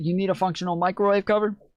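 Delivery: high, very country woman's way of talking. Retelling a video clip, imitating a very country woman. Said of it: "But the way she says it".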